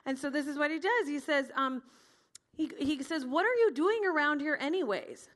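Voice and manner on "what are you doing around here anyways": mildly indignant, louder toward the middle; demanding. Acted. Older brother confronting David at the battle, demanding. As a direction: challenge him, a touch put out. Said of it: "he demanded".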